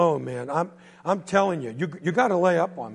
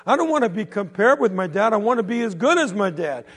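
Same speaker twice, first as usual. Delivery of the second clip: loud, higher, fed-up outburst; angry teen; 5 semitones higher, 5 dB louder than usual. Acted. Teenage boy yelling back at the bully, angry and loud. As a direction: get right in his face and let it out.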